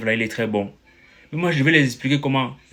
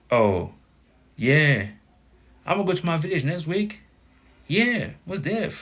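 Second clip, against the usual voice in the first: higher, drawn-out mock American English; imitated American accent; 7 semitones higher, slower than usual. An American answering a learner about village plans, imitated American accent. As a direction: put on a casual American accent, pitched up. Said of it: "L'américain va te faire un truc déjà".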